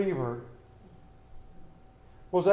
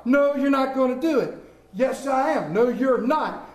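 raised, high-pitched bickering; mock quarrel; 5 semitones higher, 4 dB louder than usual. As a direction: act out a loud family argument. Acted family quarrel over job.

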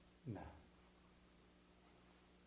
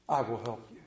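quiet reassurance; 7 semitones lower, 3 dB quieter than usual. Acted. Scripture climax drops to quiet promise.

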